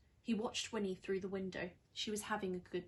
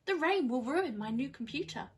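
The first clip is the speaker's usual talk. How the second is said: worried witch; 4 semitones higher, 7 dB louder than usual. Acted. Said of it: "Winnie panics".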